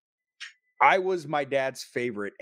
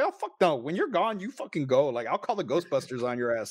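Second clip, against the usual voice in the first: mock outburst; 3 semitones higher than usual. Mock refusal to dad's ghost.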